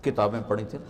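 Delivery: mock-innocent rustic asking, soft; a hint of a simple villager asking innocently; soft innocent question from a barefoot villager. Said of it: "बड़े भोलपन में कहते हैं".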